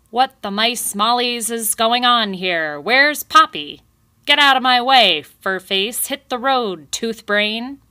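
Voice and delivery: very loud, high angry shouting; great shout. A narrator's reading. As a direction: barge in yelling at everyone. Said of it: "came a great shout".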